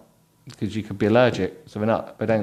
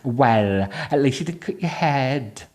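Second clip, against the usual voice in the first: 1 a bit Welsh; 4 semitones higher, slower than usual. Acted. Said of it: "That's a bit Welsh, isn't it?".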